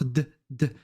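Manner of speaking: "د" stopped on the consonant, as with a sukun; blocked final D. Shown as a demonstration. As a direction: say "د" with no full vowel after it. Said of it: "بحال اللي غادي نحطو السكون في الدي". (« د » bloqué, avec un soukoun)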